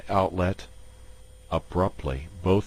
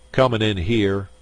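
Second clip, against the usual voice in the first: louder, higher indignant complaint; 3 semitones higher, 6 dB louder than usual. Acted. Kippy complaining to the crowd, indignant and loud. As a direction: play to the crowd, wronged. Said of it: "he said indignantly".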